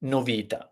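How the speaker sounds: "novità" said as no-VI-ta, stress on the middle; stress on second-last syllable. Shown as a demonstration. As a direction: lean on the VI in "novità", ta falling away. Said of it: "on the penultimate syllable".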